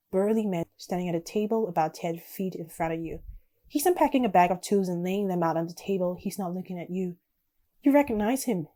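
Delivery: measured second-person storytelling; story narration. A narrator's reading. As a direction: read the story out, settling at sentence ends. Reads game's story text aloud.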